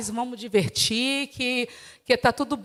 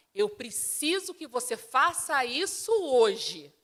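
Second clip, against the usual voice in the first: slow and softer, firm but calm; calm firm request; 6 dB quieter, slower than usual. Shown as a demonstration. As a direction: ask steadily, no explosion. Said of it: "falar assim com o". (pedido calmo e firme, devagar e mais baixo)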